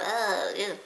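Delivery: mock groan of disgust; dégoût imité. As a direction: recoil with a drawn-out "ah, euh". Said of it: "ne rejetez pas ça avec un". (grognement de dégoût simulé)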